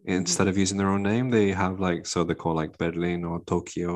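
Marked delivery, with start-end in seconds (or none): 2.8-3.9 "Berlin or Tokyo" with a light Spanish accent. Real, not acted. Explaining Money Heist names, light Spanish accent. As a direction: slip into a hint of Spanish accent on the city names. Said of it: "look at me saying a Spanish accent".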